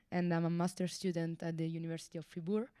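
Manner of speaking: ordinary talk, nothing marked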